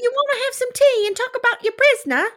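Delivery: very high, loud caricature British voice; British accent. Retold or imitated. Host mocking the proper British parents, exaggerated British accent. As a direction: squeal it as a hammed-up proper Brit. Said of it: "They are proper Brits".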